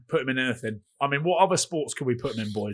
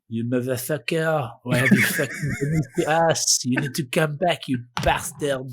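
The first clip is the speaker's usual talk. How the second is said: a hammed-up, laughing rant that slows at the end; half-joking rage as the wronged French; mock furious French rant. The French cursing the star who left them, mock furious rant. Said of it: "the French, I reckon, are sat here going".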